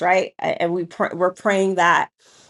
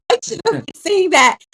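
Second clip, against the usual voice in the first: inner thought; 10 semitones higher, 5 dB louder than usual. Retold or imitated. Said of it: "I was like".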